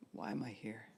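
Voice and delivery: quiet, gentle "Why am I here?"; soft sincere. Shown as a demonstration. Preacher models the right way to ask God. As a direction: ask it softly, not demanding. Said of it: "be asking God the questions".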